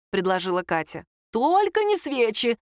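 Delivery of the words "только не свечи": higher, slowed alarmed cry; a mild acted yelp of alarm. A narrator's reading. Grandma and mother cry out against candles, mildly alarmed. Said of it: "вскрикнули бабушка с мамой".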